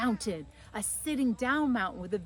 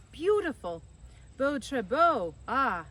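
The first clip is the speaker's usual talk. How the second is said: excited exclamation; 5 semitones higher, 6 dB louder, slower than usual. Acted. Foreign visitor exclaiming at Capri.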